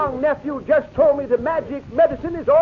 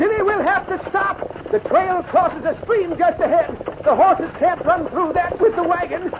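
calling out; 6 semitones higher than usual. Acted. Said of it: "suddenly called out".

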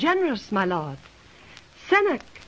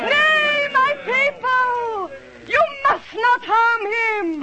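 commanding plea; 7 semitones higher, slower than usual. Acted. Princess forbids mob to kill.

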